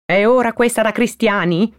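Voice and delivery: high-pitched scolding; sour, sharp. Acted. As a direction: scold the late callers tartly. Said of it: "rispose agramente Perpetua". (aspro, in tono di rimprovero)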